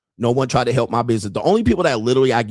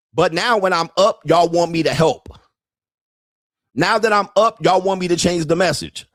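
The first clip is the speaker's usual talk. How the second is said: building rant; 5 semitones higher than usual. Real, not acted. Host lashing out at critics who now want help, heated. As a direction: hammer the repeated phrase, rising in anger.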